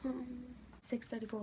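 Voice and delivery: usual speaking voice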